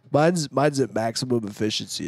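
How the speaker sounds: no nose voice. Shown as a demonstration. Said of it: "talking where you don't use your nose".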